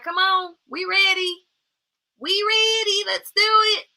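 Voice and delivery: high, loud, eager invitation; eager doors calling. Pretend. Open doors of opportunity urging the viewer in, high and eager. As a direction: voice the open doors begging you to come in.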